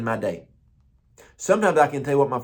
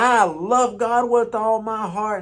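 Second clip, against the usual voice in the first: put-on old man's voice; 9 semitones higher, 3 dB louder, slower than usual. Old man tells his life.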